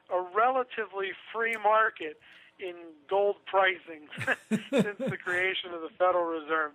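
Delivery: tongue-in-cheek, chuckling between phrases; amused, openly ironic statement; heavy sarcasm. Real, not acted. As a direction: barely keep a straight voice through the sarcasm. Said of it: "the biggest amount of sarcasm possible".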